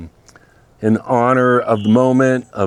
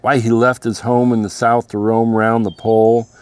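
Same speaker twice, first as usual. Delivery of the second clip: poem recitation. Acted. Reads Robert Service poem aloud.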